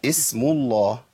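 "اسم الله" begun with a clear "i" vowel; kasra on starting hamza. Shown as a demonstration. Teacher showing how to begin, kasra on hamza. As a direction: start "اسم" on i, hissing the sin cleanly. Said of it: "بكسر همزة الوصل".

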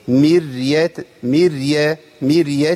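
مرية with the ر gently held, no vowel after it; still, flowing ر. Shown as a demonstration. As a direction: let the sound run slightly on the ر of مرية. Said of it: "أمكن المخرج وأمشي الصوت شوية".

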